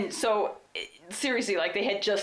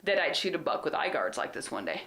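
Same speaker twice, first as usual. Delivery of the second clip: teasing sarcasm. Retold or imitated. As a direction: retell a smug I-told-you-so, stretching the opening words. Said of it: "No, my sarcasm".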